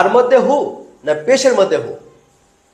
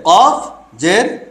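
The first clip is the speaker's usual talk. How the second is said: slow spelling drill; much slower than usual. Shown as a demonstration. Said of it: "কফের নিচে এটা কি?".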